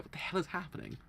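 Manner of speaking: mock confusion, one puzzled question after another; imitated bewilderment. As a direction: act out a lost viewer's bewilderment. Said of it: "Beforehand, you're like".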